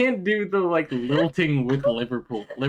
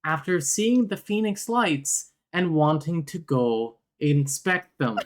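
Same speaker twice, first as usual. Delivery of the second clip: higher, swooping YouTuber voice; Ryan Hollinger impression; 5 semitones higher than usual. Doing a YouTuber's movie summary, swooping up and down. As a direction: go up, then come back down. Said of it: "when you do an impression of him".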